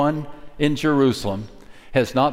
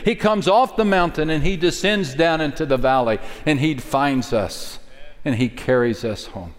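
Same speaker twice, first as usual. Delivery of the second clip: ordinary talk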